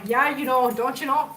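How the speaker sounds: light, playful Minnesota accent. Shown as a demonstration. Showing viewers the accent that slipped out, Minnesota accent. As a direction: toss it off in Minnesota speech. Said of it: "she got a Minnesota accent going".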